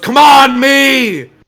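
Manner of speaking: very loud, very high, shrill, exasperated coach yell. Voicing a character scolding himself, frustrated sideline coach. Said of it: "Like a coach on the sidelines".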